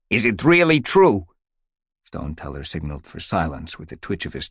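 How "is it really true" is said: higher, louder eager question. Acted. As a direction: ask breathlessly, pitched up. Mews rose all around.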